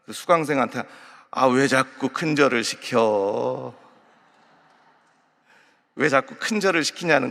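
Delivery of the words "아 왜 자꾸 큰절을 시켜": slow, lazy Chungcheong instructor drawl; Chungcheong dialect. Retold or imitated. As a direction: tease the student slowly in Chungcheong dialect. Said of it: "이 충청도 강사는".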